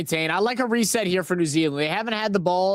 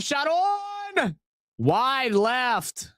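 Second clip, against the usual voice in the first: excited yelp; 8 semitones higher, much slower than usual. Real, not acted. Live shot on goal.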